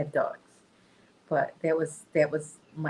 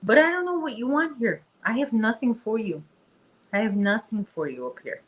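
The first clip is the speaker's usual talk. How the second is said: a little higher, playful no to the dog; mild pet talk; 4 semitones higher than usual. Real, not acted. Owner telling Chester she has nothing for him, lightly raised pet voice. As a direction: gently turn the dog down.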